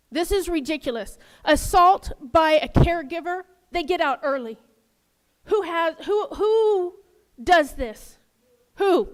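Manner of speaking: worked-up, incredulous outrage; real anger. Real, not acted. Resident railing at the council over early releases, angry. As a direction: demand an answer, punching the questions. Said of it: "this stuff just makes me angry".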